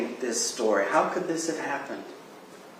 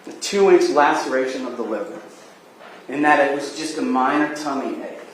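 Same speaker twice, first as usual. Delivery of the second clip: passionate closing argument; 4 semitones higher, 8 dB louder than usual. Real, not acted.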